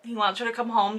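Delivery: ordinary talk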